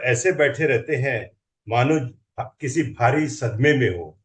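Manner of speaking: measured recital with deliberate pauses; comic Hindi verse recital, phrase endings falling; poem recitation. Acted. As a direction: recite a humorous poem line by line, letting each phrase land. Recites his humorous poem.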